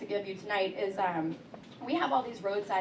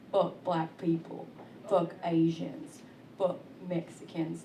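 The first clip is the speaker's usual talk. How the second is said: put-on good old boy; 6 semitones lower, 4 dB quieter, slower than usual. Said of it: "good old boys come up to me and say things like".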